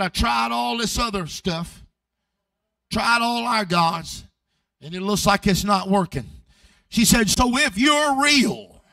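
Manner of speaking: a tired woman daring God to prove himself; dying woman's challenge. Retold or imitated. Dying woman challenges Jesus, voiced.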